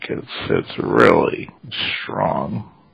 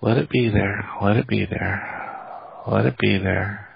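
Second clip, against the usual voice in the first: gentle grief counselor; 6 dB quieter than usual. Real, not acted. Healer soothing client through pain.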